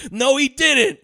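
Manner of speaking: high, loud mock protest; hammed-up yelp of denial; mock indignant denial. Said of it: "then Mark Ruffalo goes".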